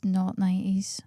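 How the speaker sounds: unvoiced muttered correction; whispering to self. Real, not acted. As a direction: whisper it to yourself. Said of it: "muttering to herself while thinking".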